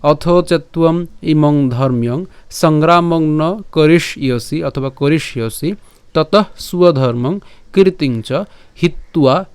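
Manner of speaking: slow, measured Sanskrit recitation; verse pronunciation demo. Shown as a demonstration. Teacher repeats the whole shloka from the start, slow recitation. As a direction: recite slowly, every syllable distinct. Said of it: "আবার যদি প্রথম থেকে উচ্চারণটা করি".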